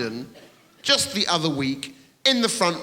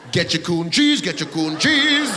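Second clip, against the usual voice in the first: mock TV ad; 4 dB louder than usual. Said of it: "advertised on your T V".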